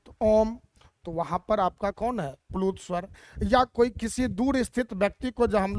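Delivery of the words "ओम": ओम held long, chant-like; drawn-out Om. Shown as a demonstration. Teacher demonstrating the prolonged vowel in ओम. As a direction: stretch ओम out over three beats. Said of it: "जैसे ओम का हम लोग उच्चारण करते हैं".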